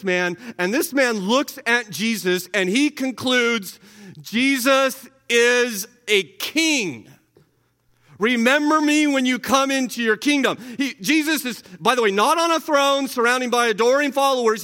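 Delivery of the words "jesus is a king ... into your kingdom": dying thief's plea. Acted. Preacher voicing the dying thief.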